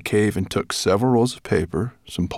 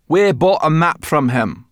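put-on girl voice; 8 semitones higher, 10 dB louder than usual. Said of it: "replied Sorrel".

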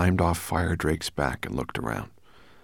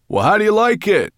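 loud, high-pitched call; 9 dB louder than usual. A narrator's reading. Sorrel checking on Ben during the flight, calling out. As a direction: call out over the rushing wind. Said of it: "Sorrel called to Ben".

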